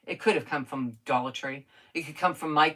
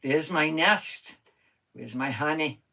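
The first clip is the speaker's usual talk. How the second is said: a lightly voiced little bee, slow and drawn out; 2 semitones lower, slower than usual. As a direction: play a bee, drawing each word out. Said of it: "He says".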